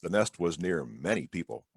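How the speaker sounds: big, sing-song storybook reading with wide pitch swings; reading to children. A narrator's reading. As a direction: read it like story time for little kids. Historian reads children's picture book.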